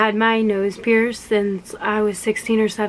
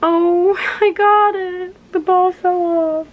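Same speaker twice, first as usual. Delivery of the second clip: higher and louder with a laugh; excited relief; 8 semitones higher, 4 dB louder, slower than usual. Real, not acted. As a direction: break into triumphant giggles. Finally gets piercing out.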